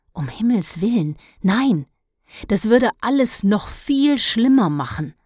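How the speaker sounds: panicked protest to stop his mother; startled alarm. Acted. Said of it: "Dennis erschrak". (erschrocken, höher und lauter)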